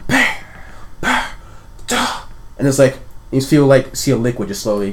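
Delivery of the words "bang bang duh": spaced-out, weakening thumps; slowing bangs. Acted. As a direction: let the banging slow and die away. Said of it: "it gets slower".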